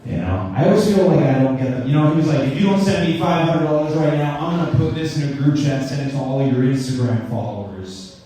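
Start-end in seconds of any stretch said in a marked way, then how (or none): 2.5-8.2 attempted South Sudanese accent, pitched a little up; lightly put-on South Sudanese accent. Scammer threatening a comedian over five hundred dollars, South Sudanese accent. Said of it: "my best impression of the South Sudan accent".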